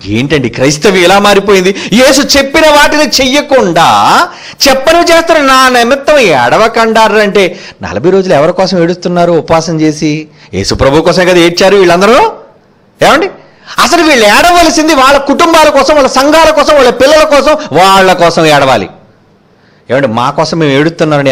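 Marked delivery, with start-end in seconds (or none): 1.9-7.2 indignant preaching. Acted. Preacher denounces disobedience. 13.8-18.9 high, sustained listing cadence; insistent preaching. Acted. Preacher lists whom to weep for.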